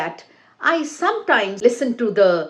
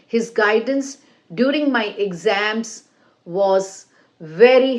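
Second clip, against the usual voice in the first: deliberate phrasing, pausing between chunks as the pitch moves; intonation up and down. Shown as a demonstration. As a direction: model exam answer with rises and falls on key words. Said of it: "your voice should go up and down".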